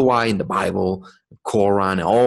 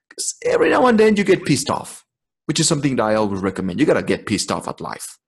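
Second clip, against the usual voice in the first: ordinary talk, nothing marked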